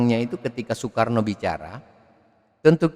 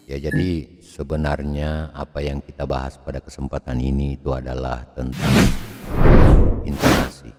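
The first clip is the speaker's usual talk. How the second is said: much lower, deep bass register; 8 semitones lower than usual. Shown as a demonstration. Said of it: "Itu suara ngebass". (suara ngebass yang rendah)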